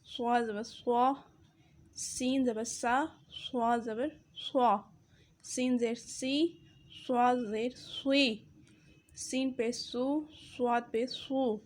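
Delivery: سین زبر سا said light, سوا زبر سوا said heavy and rounded; sin versus swad. Shown as a demonstration. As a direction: contrast thin سین against full سواد. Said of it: "سین کی آواز نکالنی ہے".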